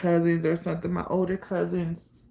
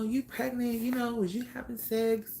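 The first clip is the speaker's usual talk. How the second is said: casual cousins; 6 semitones higher than usual. Retold or imitated. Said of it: "talking to me like we cool".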